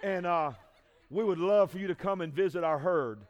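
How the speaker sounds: soft, low, chuckling invite; amused mock invitation. Churchgoer inviting a coworker to the herd, laughing. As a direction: talk to a coworker while laughing at yourself. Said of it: "went into work tomorrow and said".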